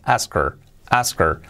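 "Oscar" said Asker, the O almost an A and the final r swallowing the vowel; "Oscar" as Askər; English Oscar. Shown as a demonstration. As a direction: open the O toward A in "Oscar". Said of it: "la O casi como una A".

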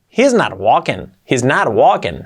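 he's not walking as a lively denial, NOT stressed; with intonation. Shown as a demonstration. Teacher acting a denial, with intonation. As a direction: lean on "not" in he's not walking, then fall. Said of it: "a la entonación".

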